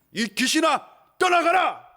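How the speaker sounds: high, loud command; commanding exorcism. Acted. Jesus orders the demon out, loud. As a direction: cast the demon out with force. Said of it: "예수님 뭐라 그랬어요?".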